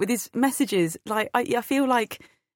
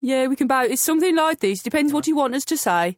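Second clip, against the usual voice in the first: put-on Birmingham lilt, a little raised; Brummie accent; 2 semitones higher than usual. Shown as a demonstration. Panelist showing the host how Brummie sounds, Birmingham accent. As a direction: demonstrate a Brummie accent on the spot. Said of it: "give me really quickly a Brummie accent".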